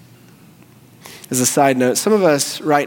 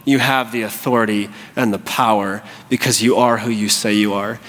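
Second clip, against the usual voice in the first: low-pitched, assured confession; quiet faith; 5 semitones lower than usual. Acted. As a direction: settle into calm certainty. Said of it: "he does commend coming in faith".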